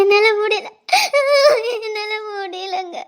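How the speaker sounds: sobbing, slowing and fading into tears; crying. Acted. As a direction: break down crying, slowly. Wife crying as husband leaves. (அழுது கொண்டே மெல்லிய குரல்)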